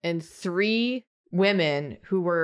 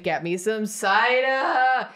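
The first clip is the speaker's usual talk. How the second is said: put-on louder drunk call; 4 semitones higher, 3 dB louder, slower than usual. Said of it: "she just keeps getting louder".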